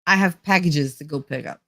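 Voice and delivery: everyday New Jersey accent, unforced. Shown as a demonstration. Listing highlight words for viewers, New Jersey accent. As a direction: show off your New Jersey vowels. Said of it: "That's how we talk".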